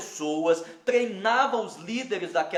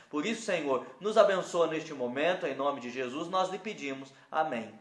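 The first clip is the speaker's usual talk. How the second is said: earnest spoken prayer, a little lower; 3 semitones lower than usual. Real, not acted. Pastor asking God to bless the reading, prayerful.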